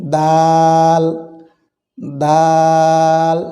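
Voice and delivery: দাল with a very long "aa"; long drawn-out letter. Shown as a demonstration. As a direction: hold দাল evenly for four beats. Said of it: "চার আলিফ পরিমাণ দীর্ঘ হবে".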